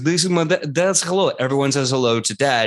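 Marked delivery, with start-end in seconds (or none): 0.0-1.3 Professor Morrow. Acted. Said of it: "so Professor Morrow says".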